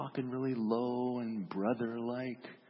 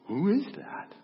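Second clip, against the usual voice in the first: high, louder, baffled question; astonished question; 9 semitones higher, 5 dB louder than usual. Acted. Onlookers hear him talk like a stranger, astonished. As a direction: ask it in high-pitched disbelief.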